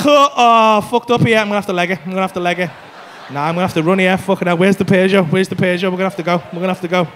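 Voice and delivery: low-pitched, repetitive panicked self-talk; mock panic. Customer seeing ninety-five grand price, mock panic. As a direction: act out wanting to bolt, voice dropped low.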